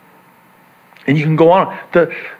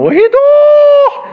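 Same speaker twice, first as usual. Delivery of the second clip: shrill-free high octave jump, loud; mom's high octave call; 6 dB louder, slower than usual. Retold or imitated. Mother calling her son, pitched way up an octave. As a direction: shoot up an octave like mom calling. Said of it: "she would hit a certain tone and note, an octave".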